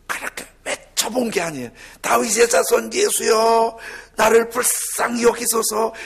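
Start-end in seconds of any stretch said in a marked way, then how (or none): 2.0-5.9 earnest cry. Acted. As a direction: beg with all your heart, loud. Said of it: "이렇게 한번 간절히 외쳐보고". (간절하게 크게 외치는 기도)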